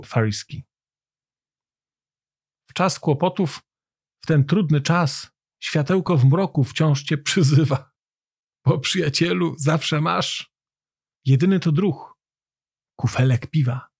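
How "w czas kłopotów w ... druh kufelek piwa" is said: measured verse, pausing between short lines; rhythmic, deliberate recital; poem recitation. A narrator's reading. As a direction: recite it line by line, lowering the final refrain.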